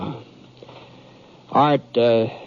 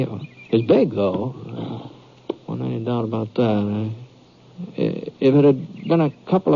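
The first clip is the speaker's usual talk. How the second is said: measured western storyteller narration; story narration. A narrator's reading. Britt narrating his ride into the canyon, reflective storytelling. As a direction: tell it back calmly, like a memory.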